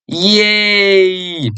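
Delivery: high bright yay; a happy little cheer. Real, not acted. Teacher celebrating with students, excited yay.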